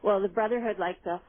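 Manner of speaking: put-on a light, slowed Cockney accent; Michael Caine Cockney. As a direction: quote the film in a loose Cockney accent. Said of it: "Michael Caine's going in his very, uh, brogue, uh, Cockney accent".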